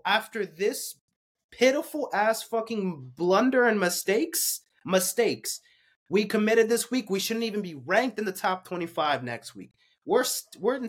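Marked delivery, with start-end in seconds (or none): 0.0-7.6 heated rant. Real, not acted. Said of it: "I got a little heated there".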